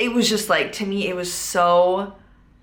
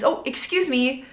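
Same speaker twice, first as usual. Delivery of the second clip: higher, casually polite excuse-me; smiling polite apology; 6 semitones higher than usual. Retold or imitated. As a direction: lightly excuse yourself with a smile. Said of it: "I smile and I say".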